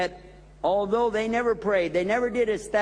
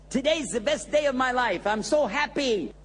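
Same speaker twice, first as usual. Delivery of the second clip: high, bright-eyed joy, imitating the brother; excited; 6 semitones higher than usual. Brother bragging to the imam, excited and high. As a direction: play the overjoyed friend. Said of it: "he was all excited".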